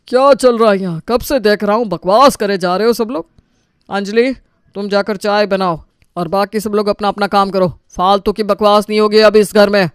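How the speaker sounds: father shouting. Acted. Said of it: "आनंद के चिल्लाने से".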